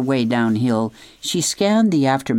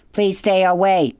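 pleading; 6 semitones higher, 3 dB louder than usual. A narrator's reading. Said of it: "said the robot".

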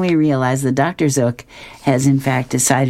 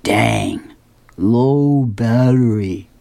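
Sherman; much slower than usual. Acted. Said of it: "He says".

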